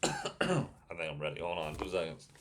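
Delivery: recovering from heartburn; settling the throat after heartburn. Real, not acted. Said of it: "I got really bad heartburn".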